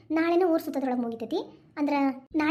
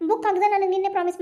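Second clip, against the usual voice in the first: shocked disbelief; 3 semitones higher, 4 dB louder than usual. Acted. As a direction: repeat his words, stunned and upset. Wife learns trip was false. (ನಂಬಲಾಗದ ಆಘಾತದಿಂದ ನಿಧಾನವಾಗಿ)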